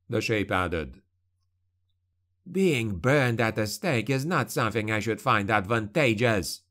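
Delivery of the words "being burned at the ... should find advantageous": words spat out in disdain. Acted. Carandini rejecting the shadow's scheme, spat scornfully. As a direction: spit the line back with scorn. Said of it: "spat Carandini".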